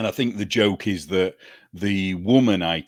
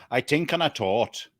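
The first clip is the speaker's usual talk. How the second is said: light Southern Irish, th said as t in tort; 5 semitones higher than usual. Shown as a demonstration. Explaining the Southern Irish accent, lightly voiced. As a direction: drop the th like a Dublin speaker. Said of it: "Southern Irish ... they don't say the T H sound".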